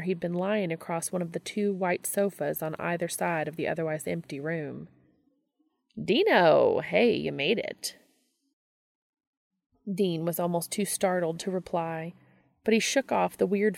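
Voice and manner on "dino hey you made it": loud bright call of Dino, then easing down; cheery greeting. Acted. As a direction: pop up and hail him cheerfully. Gabriel pops up greeting Dean.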